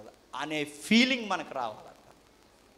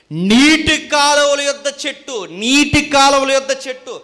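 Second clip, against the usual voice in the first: raised, emphatic sermon voice; forceful preaching; 4 semitones higher, 12 dB louder than usual. Real, not acted. Preacher expounding the tree by the waters, forceful preaching. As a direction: drive the verse home to the listeners.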